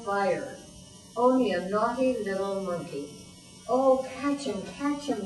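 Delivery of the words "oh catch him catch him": crying out. Acted. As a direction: yell to grab him. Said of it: "they cried".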